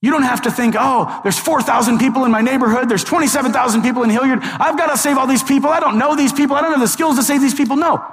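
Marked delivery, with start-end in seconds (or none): 0.8-7.8 mock overwhelmed. Voicing an overwhelmed believer's worry.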